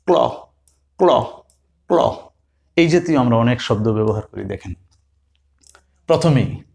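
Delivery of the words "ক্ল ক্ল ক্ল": ক্ল said as one fused kl cluster; teacher drilling ক্ল; blended kl sound. Shown as a demonstration. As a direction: drill ক্ল three times, crisp. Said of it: "সিএল এর সংযুক্ত উচ্চারণ".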